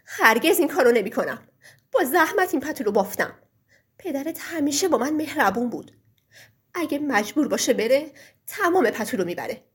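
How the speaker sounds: furious loud refusal; loud angry wife defending the old man; shouting. Acted. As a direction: shout him down in anger. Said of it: "زن داد زد".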